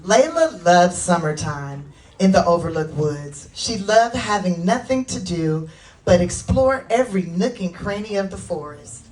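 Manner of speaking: animated storybook reading with lifted key words; children's story narration. A narrator's reading. Author reading Layla's story to children, animated narration. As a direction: read it to children, expressively. Reads own book to children.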